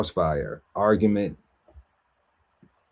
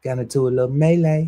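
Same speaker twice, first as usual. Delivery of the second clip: playful example line; 6 semitones higher, 4 dB louder, faster than usual. Acted. Acted example sentence, high fast.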